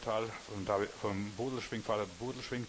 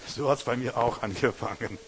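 punchline repeated much louder, stress on hat's; 7 dB louder than usual. Shown as a demonstration. Preacher repeating the punchline to the congregation, loud. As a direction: hammer the line home loudly.

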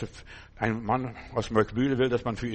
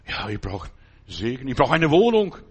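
whining complainer; 6 dB louder than usual. Retold or imitated. Voicing a needy complainer.

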